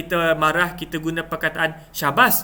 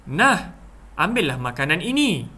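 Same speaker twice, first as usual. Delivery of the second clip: demonstrated "here, have it"; handing-over exclamation; offering something. Shown as a demonstration. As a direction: offer food to someone. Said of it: "kita nak memberikan kepada seseorang".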